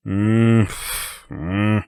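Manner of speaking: sleepy wordless "mm" mumble; mumbled groan. A narrator's reading. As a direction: moan it from under a pillow. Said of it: "Brett mumbles as he covers his head".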